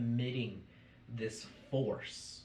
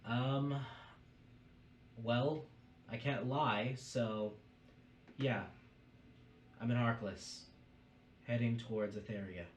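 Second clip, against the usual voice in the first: lightly voiced, halting admission; hesitant elven figure. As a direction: hesitate between words, starting a bit raised. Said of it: "you hear them just go".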